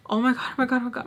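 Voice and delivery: retold mild freak-out, words tumbling out. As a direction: reel it off in a mild panic. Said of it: "I'm, like, freaking out".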